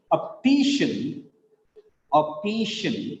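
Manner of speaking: slow "optician", op-TI-shun with TI stressed; stress on penultimate syllable. Shown as a demonstration. Teacher giving a rule's example, "optician" slowly stressed on TI. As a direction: draw out TI in "optician". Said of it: "that is why it is stressed".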